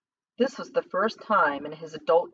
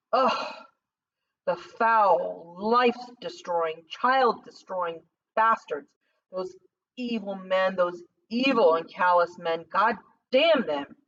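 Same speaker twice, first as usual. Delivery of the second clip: bitter curse; slower than usual. Acted. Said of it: "as a true and awful curse".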